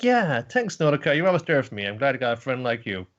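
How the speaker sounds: lightly voiced cute mascot; grateful rabbit. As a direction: sincerely thank the friend. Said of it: "It's like".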